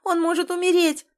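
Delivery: high, loud cry of alarm; a pleading cry for help; desperate shout. A narrator's reading. Desperate plea over crowd.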